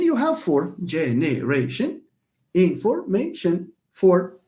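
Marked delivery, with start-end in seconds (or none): 0.8-2.0 syllable by syllable. Shown as a demonstration. Counts syllables aloud, four. 2.5-4.4 syllable by syllable. Shown as a demonstration. Counts syllables aloud, four.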